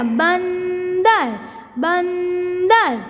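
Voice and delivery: बंदर drawn out very slowly, न clear between ब and द; slow demo of बंदर's nasal; nasal sound stretched. Shown as a demonstration. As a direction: hum the न inside बंदर. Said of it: "ब और द के बीच में न का साउंड".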